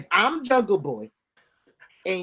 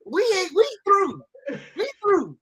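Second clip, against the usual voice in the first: put-on Jungle Boy; 4 semitones higher, 5 dB louder than usual. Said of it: "If I'm Jungle Boy".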